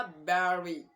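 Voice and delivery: "बैटरी" with the t softened to a d, as the British say it; British pronunciation. Shown as a demonstration. Teacher pronounces battery the British way. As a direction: say "बैटरी" like "baddery". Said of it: "बैटरी को क्या कहा?".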